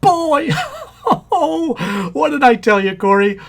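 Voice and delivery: high, loud laughing glee; overjoyed. Acted. Man learns it's a boy, overjoyed. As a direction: crow with delighted laughter.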